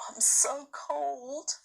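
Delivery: breathy whispered complaint, chilled through; small frozen whisper; shivering whisper. A narrator's reading. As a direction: whisper it like a cold child at dawn. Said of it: "said Lucy".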